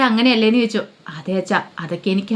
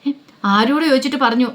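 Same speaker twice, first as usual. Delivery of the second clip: higher, pressing, mildly angry demand; angry questioning; 4 semitones higher than usual. Acted. Father confronting daughter about the secret, mildly angry. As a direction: press her for who allowed it. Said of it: "ബാലേന്ദ്രന് ദേഷ്യമായി".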